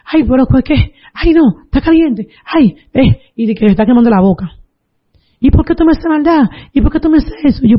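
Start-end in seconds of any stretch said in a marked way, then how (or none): 0.1-3.2 mock cry of being burned, pitched up; pained protest. Retells grandmother crying out burned. 5.4-7.6 pained reproach. Retold or imitated. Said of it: "comenzó a gritar duro".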